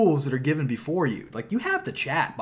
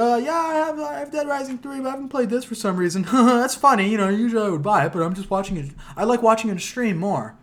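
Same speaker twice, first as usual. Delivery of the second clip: put-on pitched-up kid voice, rambling and a little fast; small boy voice; 8 semitones higher, 3 dB louder than usual. Streamer imitating the boy chatting about Dead Rising, pitched-up kid voice. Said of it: "the voice of a small boy".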